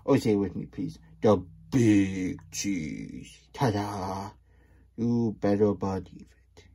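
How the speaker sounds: loud, swaggering self-praise; boastful Big Cheese. Acted. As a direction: puff up and show off to the crowd. Reading the Big Cheese book aloud.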